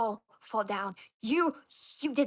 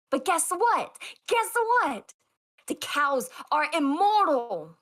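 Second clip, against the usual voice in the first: excited reveal; 3 semitones higher, 3 dB louder, slower than usual. Acted. Teasing reveal.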